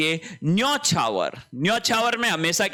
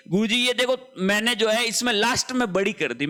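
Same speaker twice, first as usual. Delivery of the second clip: student quote; 4 semitones higher than usual. Retold or imitated. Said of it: "उसने कहा कि".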